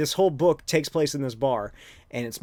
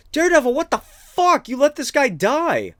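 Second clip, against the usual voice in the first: mock shout, much higher and louder; angry bystander; 12 semitones higher, 8 dB louder than usual. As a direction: yell at Daredevil in outrage, pitched way up. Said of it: "somebody's like".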